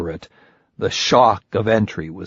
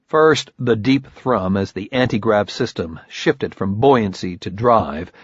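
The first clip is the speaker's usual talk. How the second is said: usual speaking voice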